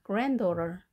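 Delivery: "granddaughter" stressed on GRAND; stress on first syllable. Shown as a demonstration. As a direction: put the weight at the front of "granddaughter". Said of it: "강세는 앞에 있습니다". ("granddaughter"의 앞 grand에 강세)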